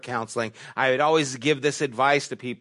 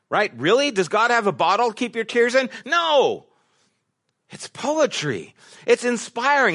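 rising preacher fervor; 8 semitones higher than usual. Real, not acted. Preacher questions literal reading.

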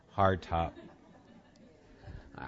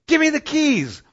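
high, full-voiced furious demand; imitated mother's yell; 12 dB louder than usual. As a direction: yell it like a mom taking back control. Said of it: "She just yelled, she goes".

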